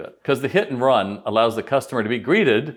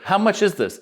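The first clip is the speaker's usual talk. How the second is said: customer voice; 9 semitones higher than usual. Retold or imitated. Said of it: "this woman comes in".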